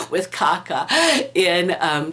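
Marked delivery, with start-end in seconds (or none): 0.1-0.9 laughing. Real, not acted. Laughing at punchline.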